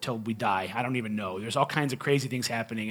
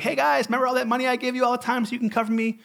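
sarcastic plea; 9 semitones higher, faster than usual. Retold or imitated. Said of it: "where I'm like".

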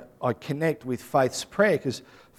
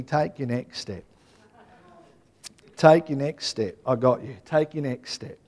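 gentle reassurance; 3 dB quieter than usual. Retold or imitated. God's reassuring words to him.

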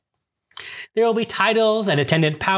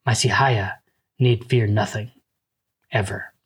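gently lower, tender reassurance; reassuring; 6 semitones lower than usual. A narrator's reading. Paul comforting Chani about losing him, tenderly. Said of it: "But Paul reassured her".

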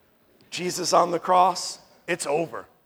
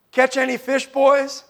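high, teasing sarcastic call; a little sarcastic; 8 semitones higher, 6 dB louder than usual. Acted. Jesus calling from the shore to fishermen, a little sarcastic. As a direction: needle them with a raised, mock-innocent question. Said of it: "sounds a little sarcastic to me".

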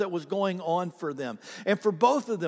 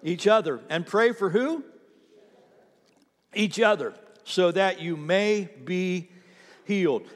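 emphatic scripture call; 2 semitones higher, 3 dB louder than usual. Shown as a demonstration. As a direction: call it out for the church to answer. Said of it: "He says".

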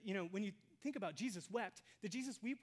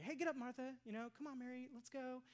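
brisk urging; 6 semitones higher than usual. Acted. Acts brisk words Jesus didn't say.

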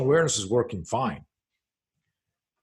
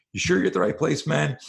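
lightly voiced cop, pitched up; imagined cop questioning; 5 semitones higher than usual. Cop at the door checking on a suspicious arrival, questioning. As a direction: query him in a higher voice, like a door cop.

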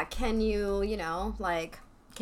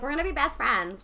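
mock bossy declaration; 4 semitones higher than usual. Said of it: "never speak that way".

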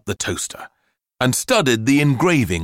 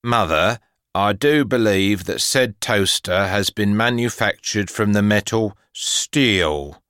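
lightly voiced pompous, humorless boy; measured, deadly serious declaration. A narrator's reading.

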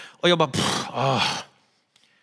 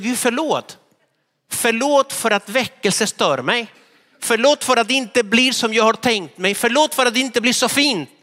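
retold prayer; 4 semitones higher than usual. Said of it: "Och då sa jag".

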